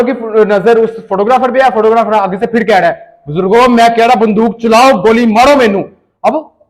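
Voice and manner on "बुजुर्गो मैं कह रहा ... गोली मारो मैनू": loud dare to shoot him; loud challenge. Retold or imitated. Photographer daring the father to shoot, loud. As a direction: shout the dare at the old man. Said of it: "ऊंची आवाज से बात कर रहा है".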